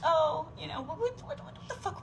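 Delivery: high, cracking laugh-cry. Real, not acted. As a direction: laugh through tears in disbelief. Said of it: "we've just been saying that".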